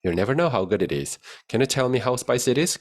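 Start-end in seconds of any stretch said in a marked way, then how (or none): 1.5-2.8 slow, clear question; slow model read. Shown as a demonstration. Teacher reads the question slowly. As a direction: read it for students. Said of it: "확인해 볼 수 있겠죠".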